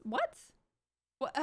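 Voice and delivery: sharp high disbelieving what; incredulous what. Real, not acted. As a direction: yelp it in disbelief, pitch leaping up. Incredulous rant at commenters.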